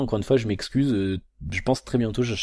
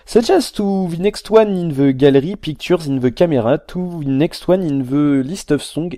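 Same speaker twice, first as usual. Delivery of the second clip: slow, higher English in a hammed-up thick French accent; mock French accent; 5 semitones higher, 5 dB louder, slower than usual. French vlogger mocking the phone's poor translation, slow thick French accent. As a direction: read it like a bad translation, heavy French accent. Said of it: "je fais exprès de prendre un accent comme ça".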